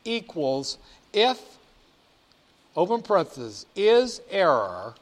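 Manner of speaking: careful symbol-by-symbol dictation; dictating. Shown as a demonstration. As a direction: read the formula out piece by piece. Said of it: "Let me do it again".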